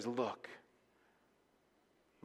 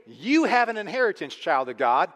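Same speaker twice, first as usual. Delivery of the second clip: high, loud declaration; ringing proclamation; 4 semitones higher, 5 dB louder than usual. Acted. Preacher proclaiming to the children of God, loud and high. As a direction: proclaim it over the church.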